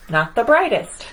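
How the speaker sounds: lively picture-book read-aloud as the boastful sun; reading to children. A narrator's reading. Reader voicing the proud sun for children, playful storytelling. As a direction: read it to the kids, playing up the sun's swagger.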